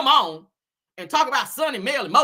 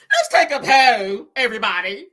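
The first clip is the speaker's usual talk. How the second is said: mocking fancy talk; 5 dB louder than usual. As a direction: ham up her fancy college talk. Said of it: "she'd like throw some big words".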